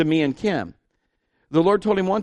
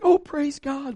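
delighted; 12 semitones higher, slower than usual. Retold or imitated. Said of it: "And she's like".

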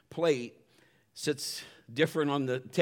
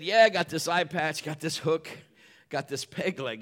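pirate voice; 2 semitones higher, 4 dB louder than usual. Retold or imitated. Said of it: "my best pirate voice".

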